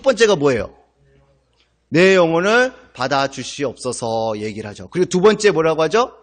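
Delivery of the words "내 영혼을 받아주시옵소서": slow, earnest plea; dying prayer. Retold or imitated. Pastor quoting Stephen's dying prayer, slow and earnest. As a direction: pray it slowly and humbly. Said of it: "하나님 앞에 뭐라고 기도해요".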